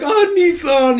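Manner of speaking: high, loud, overjoyed cry; mock tearful wail. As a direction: wail it like a sobbing fan. Pupils wailing, tackling their senior.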